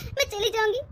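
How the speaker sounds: soft crying, words through a sob; tearful. Acted. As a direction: hold back tears as you say you'll leave. बहू इल्ज़ाम पर रोती है. (रोते हुए धीमी आवाज़ में)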